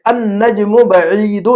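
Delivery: very slow, drawn-out Arabic recitation; model reading. Shown as a demonstration. Teacher reading a sentence for translation, very slow model reading. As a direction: read it out measured, stretching long vowels. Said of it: "جملہ پڑھتا ہوں".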